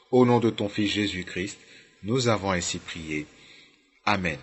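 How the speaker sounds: measured, earnest spoken prayer. Real, not acted. Preacher asks the Lord for help to understand and repent, in prayer.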